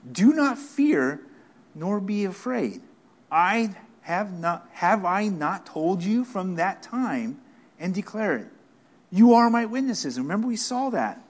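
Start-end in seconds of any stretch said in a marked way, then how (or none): 0.1-10.2 mild frustration, slow and drawn out; frustrated. Acted. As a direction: lean on each word, exasperated. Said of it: "you can almost hear a frustration in there".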